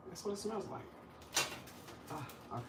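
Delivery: whisper. Real, not acted. Whispered aside about the smell.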